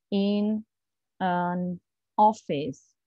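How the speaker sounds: "In an office" said slowly with each word apart; read word by word. Shown as a demonstration. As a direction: read it stiffly off the page. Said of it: "what you would probably read".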